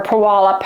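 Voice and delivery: Puyallup said poo-AL-up; first syllable of Puyallup like "poo"; alternate pronunciation. Shown as a demonstration. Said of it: "however you wanna say it".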